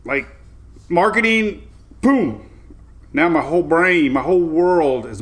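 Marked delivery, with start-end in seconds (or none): 0.9-2.5 excited revelation. Real, not acted. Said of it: "I woke up".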